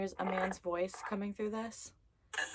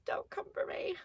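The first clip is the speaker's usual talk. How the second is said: high breathy whisper; 14 semitones higher, 5 dB quieter than usual. Real, not acted. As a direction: hush it like a nervous aside. Whispered aside twice.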